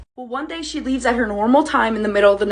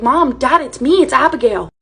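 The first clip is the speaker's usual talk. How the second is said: louder, pleading, confused; confused and scared; 3 semitones higher, 5 dB louder than usual. Retold or imitated. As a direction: beg them to recognise you. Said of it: "Confused and scared".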